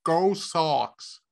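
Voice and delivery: Boston accent. Shown as a demonstration. Host tests if he could pass for Boston, Boston accent. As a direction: drop the New York sound and go Boston. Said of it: "could I pass for".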